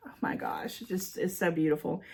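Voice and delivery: soft breathy whisper of awe; awed whisper. Real, not acted. Whispering in awe over a viewer's card. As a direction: breathe it out in wonder.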